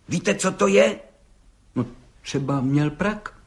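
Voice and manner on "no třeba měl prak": hesitant, slow and soft; unsure objection. A narrator's reading. Judge doubtfully objecting to the gendarme, hesitant. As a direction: offer it doubtfully, half expecting to be wrong. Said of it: "namítl soudce nejistě".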